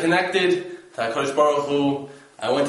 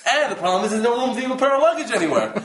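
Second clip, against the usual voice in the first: laughing disbelief; 5 semitones higher, faster than usual. Retold or imitated. Retelling the crowded room, laughing.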